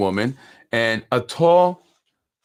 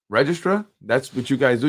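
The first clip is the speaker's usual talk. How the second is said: incredulous. Real, not acted. Scoffing at the registrar's title, pitched up in disbelief. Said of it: "The registrar?".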